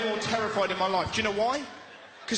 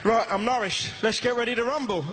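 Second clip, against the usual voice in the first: mock rally cry. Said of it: "I didn't say that either".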